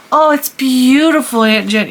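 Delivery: put-on high, loud, gushing little-girl voice; four-year-old niece. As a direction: swoon sweetly like a small Disney princess. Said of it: "And that's how she talks, very high".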